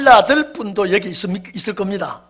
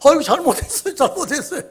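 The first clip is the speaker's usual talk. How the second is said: startled apology; 6 semitones higher, 4 dB louder, faster than usual. Retold or imitated. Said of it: "그 사람이 놀래가지고".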